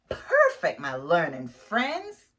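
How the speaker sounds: excited teacher praise; cheering teacher. Acted. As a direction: cheer the children on.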